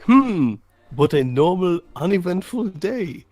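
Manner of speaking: loud, obviously fake nonchalance; fake casual. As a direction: overact being innocent. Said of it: "while being completely obvious".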